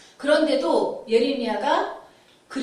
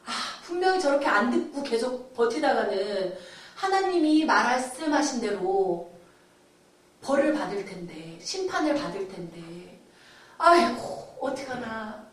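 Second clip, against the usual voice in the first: grieving lament. Retold or imitated. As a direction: lament for people headed for judgment. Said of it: "백성을 위해서 눈물을 흘린다는".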